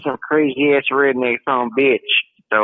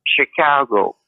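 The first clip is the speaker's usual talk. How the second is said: Midwest accent; slower than usual. Shown as a demonstration. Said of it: "That's the Midwest accent".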